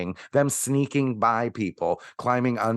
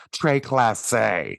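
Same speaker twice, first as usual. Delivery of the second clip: slow mock French accent, très classé drawn out; mock French posh; much slower than usual. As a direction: put on a snooty French accent.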